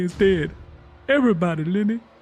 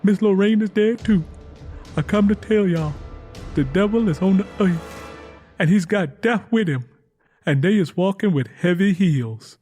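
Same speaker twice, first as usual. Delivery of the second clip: higher and louder, desperate; frightened insistence; 8 semitones higher, 5 dB louder than usual. A narrator's reading. Tangy May warning everyone of death, high, loud and desperate. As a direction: insist the devil walks, terrified.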